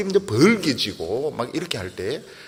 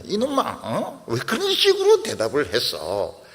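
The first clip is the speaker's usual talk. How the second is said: mock scolding parent. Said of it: "부모가 애를 막 머리를 쥐박습니다".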